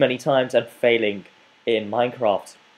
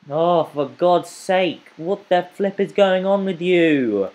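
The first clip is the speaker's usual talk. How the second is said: exasperated whine; 5 semitones higher than usual. Real, not acted. Exasperated at being attacked.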